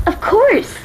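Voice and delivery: high excited Of course; excited exclaim. Acted. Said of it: "she exclaimed".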